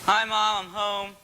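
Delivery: announcing arrival, calling out. Acted. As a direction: call out to Mom from the door.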